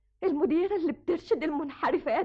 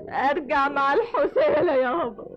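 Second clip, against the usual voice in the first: laughing through tears at her father; a bitter half-laugh, half-sob; 4 dB louder than usual. Acted. Daughter mocking her father through tears, laughing.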